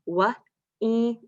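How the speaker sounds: "Wa-ile" split into onset and rime; sounding out. Shown as a demonstration. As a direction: segment the word for the kids. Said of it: "let's try this one".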